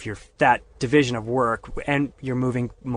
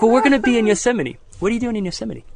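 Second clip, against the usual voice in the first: flustered; 9 semitones higher, 3 dB louder, faster than usual. Retold or imitated. Flustered cover to mom.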